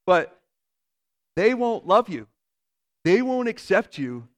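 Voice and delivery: forceful retold warning to a child; emphatic warning. Voicing mother's warning as he internalized it.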